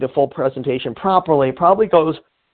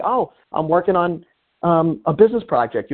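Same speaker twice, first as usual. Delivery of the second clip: casual pitch line; 3 semitones higher than usual. Shown as a demonstration. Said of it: "You can say".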